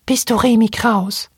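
piping little robot monkey asking; squeaky little voice. Acted. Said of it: "fragte es mit Piepchenstimmchen".

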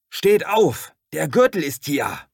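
very high, very loud warning; frantic alarm yell; shout. Acted. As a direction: pound the doors and scream it. Banging on doors, warning.

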